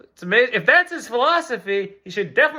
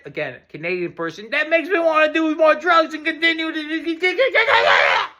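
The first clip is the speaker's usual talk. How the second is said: exasperated patient; 5 semitones higher than usual. Acted. Patient snapping at his doctor, high exasperated voice. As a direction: spell it out, losing patience.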